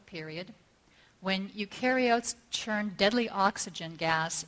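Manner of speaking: measured oratory with deliberate pauses between phrases; formal speech. Real, not acted. Speaker opening a talk on art and survival, formal speech. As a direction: read out a solemn prepared address.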